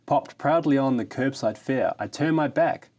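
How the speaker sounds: grand, hammed-up ode reading; mock-solemn ode to a kickstand; mock-heroic poem recital. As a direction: declaim it like solemn verse. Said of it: "something I've developed specially to celebrate".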